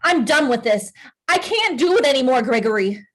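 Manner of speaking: exasperated outburst to a husband; fed up. Acted. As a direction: had it with him, pitch climbing mid-way. Wife breaks off quarrel.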